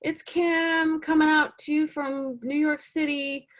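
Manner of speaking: high, slow, overly bubbly self-introduction; mock a too-cheery actor greeting the camera; hammed-up perky slate intro; chirpy actor slate. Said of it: "You don't have to be like".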